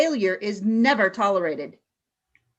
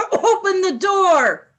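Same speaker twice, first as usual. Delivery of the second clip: louder, higher, commanding; barked order; 8 semitones higher, 6 dB louder than usual. Acted. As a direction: bark the command through the fumes. Choking leader orders escape.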